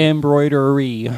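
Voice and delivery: "Embroidery" slowly and carefully, em-BROY-dery; careful pronunciation. Shown as a demonstration. Embroiderer shows friend how to say "Embroidery", slowly. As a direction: spell out "Embroidery" in sound, unhurried. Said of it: "it's not that hard to say".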